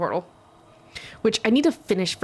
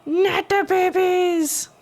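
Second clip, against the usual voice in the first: mock horror; 12 semitones higher, 4 dB louder, much slower than usual. Mock horror at attacking babies.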